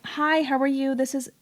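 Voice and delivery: lightly put-on receptionist greeting; customer service voice. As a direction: switch into your professional phone voice. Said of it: "hate customer service voice".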